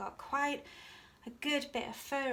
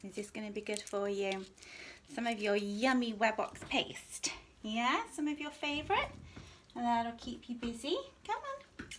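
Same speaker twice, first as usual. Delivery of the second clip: talking to a dog. Real, not acted. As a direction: coax the dog gently and sweetly. Grooming and coaxing dog Jimmy.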